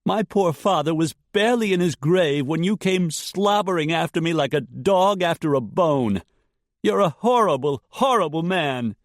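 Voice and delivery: high, loud ragged outburst; furious young woman. A narrator's reading. Jessica raging at Dietrich, ragged and loud. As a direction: hurl the insult at him.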